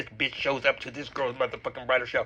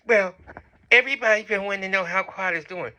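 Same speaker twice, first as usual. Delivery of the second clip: lightly put-on higher voice for a retold quote; mock Phaedra; 4 semitones higher, 4 dB louder than usual. Vlogger acting out a guest's excuse, put-on voice. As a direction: mimic her, pitched up a little. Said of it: "And Phaedra's looking like".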